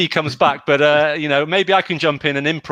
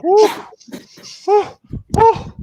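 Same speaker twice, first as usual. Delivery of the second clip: mock-shocked ooh; 4 dB louder than usual. Mock shock at rude answer.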